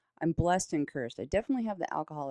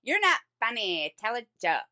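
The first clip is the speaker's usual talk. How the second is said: entitled customer; 7 semitones higher than usual. Retold or imitated. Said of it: "she's like".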